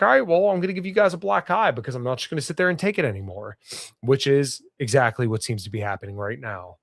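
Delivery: blocked nose; talking through a stuffed nose. Real, not acted. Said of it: "sorry if I'm a little stuffed up".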